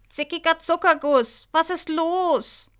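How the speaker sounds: high, loud cry of alarm; shocked exclamation. Acted. Michi finds Angelina crying, high and alarmed. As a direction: exclaim high, then stretch the worried question.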